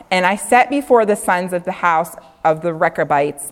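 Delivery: measured King James reading, steady and formal; scripture reading. Acted. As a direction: read the verse like Bible study. Reads scripture aloud.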